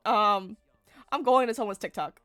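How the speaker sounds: laughing. Real, not acted. Laughing while confessing to trash talk.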